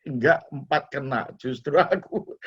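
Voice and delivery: lightly voiced complaining to himself; mock grumbling. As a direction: grumble in a mild mock self-pity. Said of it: "Kalau mau ngomel".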